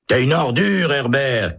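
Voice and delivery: high furious insult; angry shout. A narrator's reading. Holt shouting at Herbert in anger. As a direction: spit the insult across the block. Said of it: "crie Holt".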